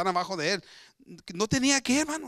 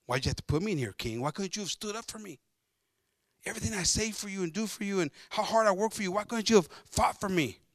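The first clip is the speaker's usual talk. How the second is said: childish, hurt complaint, lightly acted; mock pouting. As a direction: pout at the king like an upset child. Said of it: "We pout".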